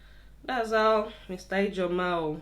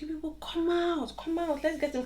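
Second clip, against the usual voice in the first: retold calling out; 9 semitones higher than usual. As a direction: imitate calling neighbors out for help. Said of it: "we start calling the names".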